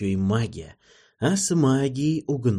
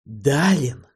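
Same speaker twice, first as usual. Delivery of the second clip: yelling; 3 semitones higher than usual. A narrator's reading. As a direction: call out sharply to the window. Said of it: "начал орать". (окрик)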